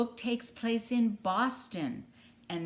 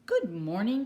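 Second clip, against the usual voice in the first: polite duck greeting; 3 semitones higher, 4 dB louder than usual. Acted. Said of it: "quacked Mister Mallard, being polite".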